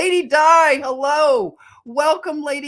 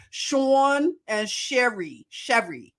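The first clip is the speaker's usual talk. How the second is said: drawn-out Philadelphia pronunciation of the names; slow Philadelphia accent demo; Philly accent; slower than usual. Shown as a demonstration. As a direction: demonstrate Philly on Sean and Sherry. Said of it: "Philly accent says Sherry".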